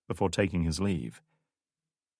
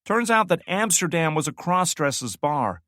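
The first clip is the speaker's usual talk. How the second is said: fighting laughter; 10 semitones higher, 5 dB louder than usual. Acted. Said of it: "struggling to keep it together".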